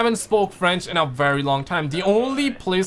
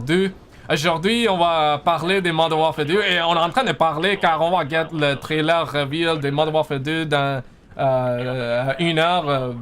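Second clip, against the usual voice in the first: switching to French. Real, not acted. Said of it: "Can you speak your native language, please?".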